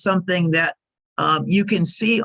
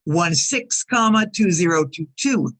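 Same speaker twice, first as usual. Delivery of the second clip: slow spelling. Shown as a demonstration. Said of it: "You see there".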